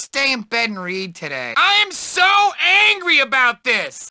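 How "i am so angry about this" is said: angry. Acted. Nerd character outburst.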